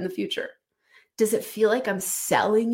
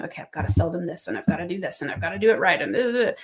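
hurried, run-on mock to-do list; pushy seller's rush; faster than usual. Coach mocking a pressured sales call, rushed rattle. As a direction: rattle it off without a break. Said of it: "I don't get on that call going".

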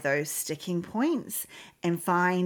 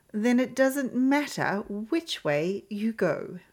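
slow, lightly voiced sly cat; a hint of a mysterious cat, slowly; Cheshire Cat voice; 5 semitones higher, slower than usual. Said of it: "ignore my acting skills".

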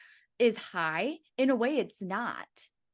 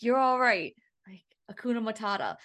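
whisper. Pretend. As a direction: whisper calm to your own body. Soothing her own body.

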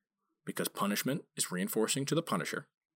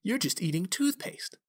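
much higher, teasing disgust; mock disgust; 12 semitones higher than usual. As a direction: tease a friend over their gross taste. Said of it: "I'm like".

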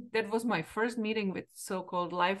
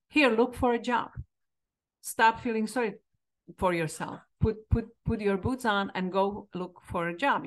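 imitating a blunt mentor, raised and firm; stern scolding. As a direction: bark it like a tough coach. Mentor scolds her to act.

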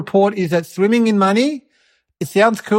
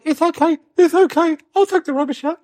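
eager dad; 8 semitones higher than usual. Retold or imitated. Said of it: "And Dad's like".

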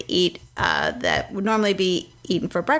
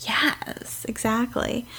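whispering; 5 dB quieter, much slower than usual. Real, not acted. Quiet agreement.

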